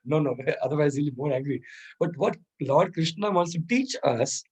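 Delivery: usual speaking voice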